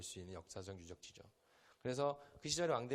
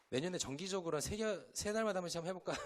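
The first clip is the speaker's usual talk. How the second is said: teasing laugh; 7 semitones higher, faster than usual. Real, not acted. Teasing the worship team.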